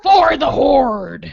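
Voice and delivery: battle cry. Pretend. Shouting a WoW battle cry.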